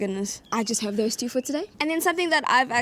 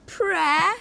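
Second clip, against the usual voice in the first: surprised prayer; 4 semitones higher than usual. Retold or imitated. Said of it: "for now I said".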